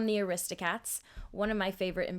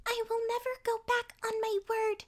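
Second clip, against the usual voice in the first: put-on high, gentle but resolute girl; shy girl finding courage; determined Hinata; 13 semitones higher than usual. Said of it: "gets across her feeling of wanting to stand up".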